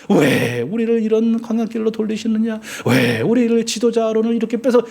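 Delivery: high, aggrieved chant-like protest; rising irritation. Retold or imitated. Preacher voices Israelites on the wilderness detour, with rising irritation. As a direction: stretch out each "why" as an acted grievance. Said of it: "이게 막 짜증이 오르는 거예요".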